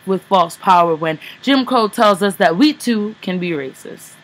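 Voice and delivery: forceful, measured slam-poetry delivery; spoken word poem. Acted. Poet performs Whitewashed to an audience, impassioned spoken word. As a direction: declaim it like a poet on stage.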